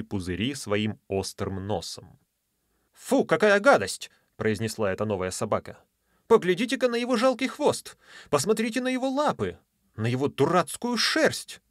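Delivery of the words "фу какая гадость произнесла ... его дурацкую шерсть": high, scornful little dog; sneering dog voice. Acted. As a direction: jeer at the other dog. Sea dog mocks Rover.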